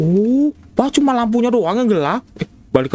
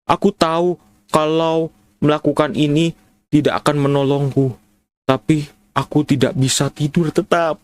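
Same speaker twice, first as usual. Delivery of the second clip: mournful diary read; 6 semitones lower than usual. Acted. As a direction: read it as a hopeless lover. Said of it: "Ceritanya gitu".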